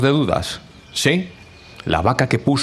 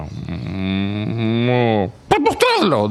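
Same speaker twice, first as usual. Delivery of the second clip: hens demanding; much slower than usual. Acted. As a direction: squawk the demand. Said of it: "dijeron las gallinas".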